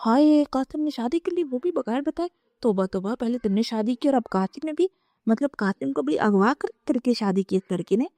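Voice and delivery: high, gleeful mockery of the scandal; mocking jeer. Aunt gloating over the secret marriage, mocking. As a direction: sneer it out with relish. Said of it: "چچی نے ٹھٹھا مارتے ہوئے کہا".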